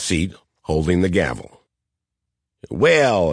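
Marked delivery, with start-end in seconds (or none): 2.7-3.3 lightly voiced Southern drawl; a hint of a thick Southern drawl. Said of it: "in his thick Southern drawl".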